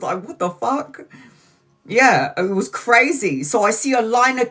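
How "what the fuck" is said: shocked. Retold or imitated. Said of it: "Even I was shocked".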